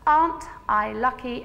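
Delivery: slow grateful murmur; slow, savoured. Shown as a demonstration. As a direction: savour "Aren't I lucky" slowly and gently. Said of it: "you say".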